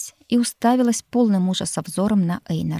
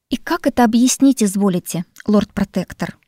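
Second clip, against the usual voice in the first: louder, indignant and scornful; indignant snort; 3 semitones higher, 6 dB louder than usual. Acted. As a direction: huff at him in outrage. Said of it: "фыркнула я, не пытаясь скрыть негодование". (возмущённо фыркая)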